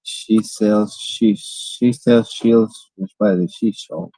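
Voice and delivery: careful try. Shown as a demonstration. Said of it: "let's try it again".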